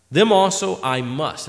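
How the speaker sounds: slow, weighted "must" landing firmly; the word "must" set down slowly and heavily; emphatic stress. Shown as a demonstration. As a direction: lean on "must" as a binding duty. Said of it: "that's emphatic".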